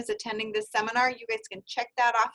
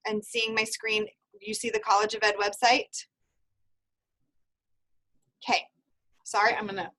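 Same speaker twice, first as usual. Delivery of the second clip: talking around chewing gum. Real, not acted. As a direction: gum in the mouth while talking. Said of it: "I forgot I had gum in my mouth".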